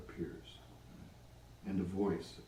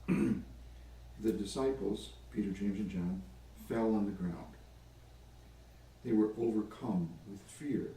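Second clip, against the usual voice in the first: spacious gospel narration; scripture storytelling. A narrator's reading. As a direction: unfold the story one phrase at a time. Tells the gospel story aloud.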